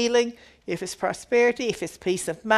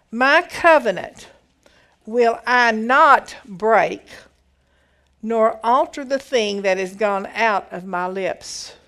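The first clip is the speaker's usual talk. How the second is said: solemn scripture reading; 3 dB louder than usual. Acted. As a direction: read God's promise out to the congregation.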